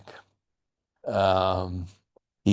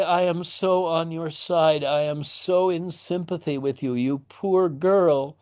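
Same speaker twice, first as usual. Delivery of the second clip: sympathetic father; 6 semitones higher than usual. Retold or imitated. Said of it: "to basically say".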